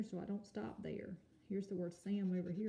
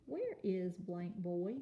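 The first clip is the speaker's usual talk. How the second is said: slow reading; slower than usual. Shown as a demonstration. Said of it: "slow reading with blank".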